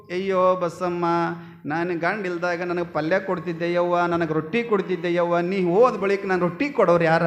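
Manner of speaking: hammed-up mourning, only lightly voiced; mock wailing lament. Neighbour women mourn Basamma over her body, mock wailing lament. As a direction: imitate neighbours keening over the dead. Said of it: "ಎಷ್ಟು ಚಂದ ಅಳ್ತಿದ್ರು".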